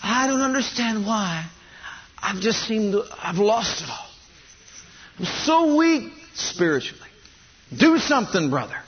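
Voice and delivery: high, pleading, helpless voice; whiny weak believer. Acted. Preacher mocking a weak believer who begs for help. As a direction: play the complaining weak Christian begging for help.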